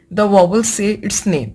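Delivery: the vowel say its name, each word spaced out slowly; slow rule reading. Shown as a demonstration. Teacher dictating the long vowel rule slowly. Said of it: "next जो आता है वो आता है long vowel sound".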